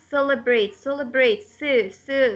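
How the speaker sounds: "Celebrate" stressed on its first syllable. Shown as a demonstration. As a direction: lean on the Ce of "Celebrate". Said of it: "the first syllable".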